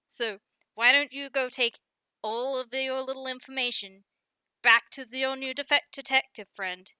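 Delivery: indignant, with loud bursts; bristling. Acted. Guppy tells Specs to leave the brothers alone, bristling. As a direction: bristle and warn them off, hitting key words hard.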